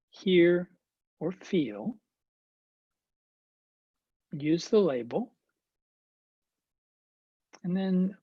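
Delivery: unhurried meditation guidance with long pauses; guided meditation. Acted. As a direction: gently guide attention, leaving space between phrases. Leads guided meditation practice.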